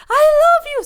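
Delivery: high, loud mock-frantic cry; heroine giving in. Heroine answering the hero, a high mock cry. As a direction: blurt it out high in panic. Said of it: "So she's like".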